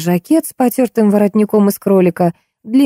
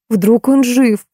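hopeful exclaim; 5 semitones higher, much slower than usual. A narrator's reading. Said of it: "с надеждой воскликнул".

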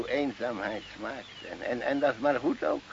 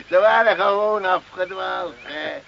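luide bittere lach; 7 semitones higher, 9 dB louder than usual. Acted. Old man's bitter laugh, protest.

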